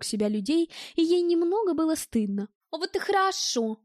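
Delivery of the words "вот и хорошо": high, gleeful butting in; snaky interjection. A narrator's reading. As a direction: cut in with sly satisfaction. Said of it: "неожиданно вставила дамочка-змея".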